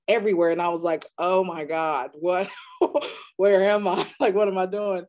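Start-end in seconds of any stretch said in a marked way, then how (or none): 1.2-5.0 half-laughing, mock panic at a bleak new town; laughing disbelief. To parents about her new town, laughing in disbelief. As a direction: laugh through the words in disbelief.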